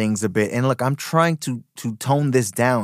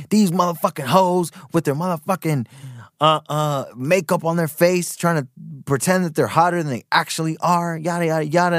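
higher, punchy mock-crude rant; crude exaggerated rant; 4 semitones higher than usual. Shown as a demonstration. Vlogger shows the spicy way to say it, mock-crude rant. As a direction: spice it up, crude and over the top. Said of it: "you're just, like, saying".

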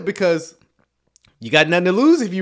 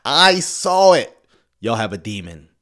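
mock preacher shout; 5 semitones higher, 7 dB louder than usual. Loudly mock-warning departing viewers.

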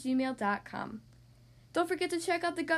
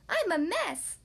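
tangled skeleton; 5 semitones higher, slower than usual. Acted.

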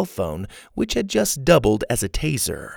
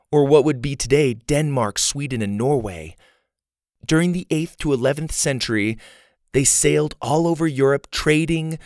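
put-on higher-pitched girl reading out a guidebook; reading aloud; 3 semitones higher than usual. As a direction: read out facts in a higher child's voice.

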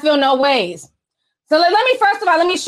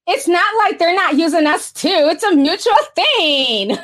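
reading voice; 2 semitones higher than usual. Retold or imitated. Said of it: "I know y'all love my reading voices".

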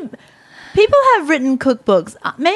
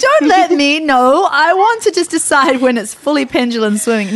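mock mom voice; 4 semitones higher than usual. Voicing a mom ignoring diapers.

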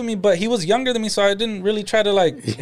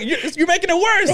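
put-on whiny kid; 10 semitones higher than usual. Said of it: "and you're just like".

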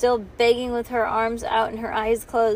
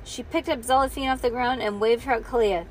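usual speaking voice

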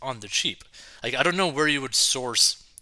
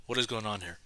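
softer aside; retold bafflement; 2 semitones lower, 7 dB quieter, faster than usual. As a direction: say it under the first reaction, subdued. Repeats the retold reaction, lower.

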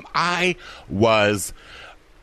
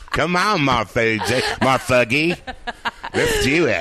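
laughing; 5 semitones higher than usual. Real, not acted. Laughing after accent joke.

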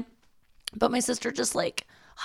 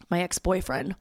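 whisper. Real, not acted. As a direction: drop to a secret whisper on the ex. Confiding about ex on walk.

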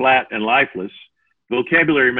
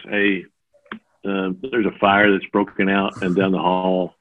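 lower, offhand warning; casual and unexcited; 3 semitones lower than usual. Shown as a demonstration. Man warning a crowded theater of a fire, casual and unbothered. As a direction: mention the fire like it's nothing. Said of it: "You don't believe that".

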